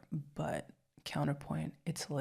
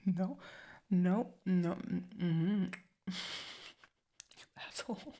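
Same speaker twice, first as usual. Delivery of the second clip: laughing insult; 3 semitones higher, much slower than usual. Acted.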